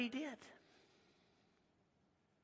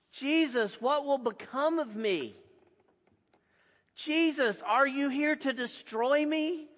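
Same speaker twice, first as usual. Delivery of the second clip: frightened possessed man begging Jesus for mercy; fearful cry; 2 semitones higher than usual. Acted. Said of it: "as the fearful cry of a man, a man afraid".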